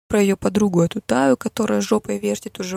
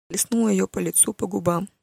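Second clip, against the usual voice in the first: plain reading voice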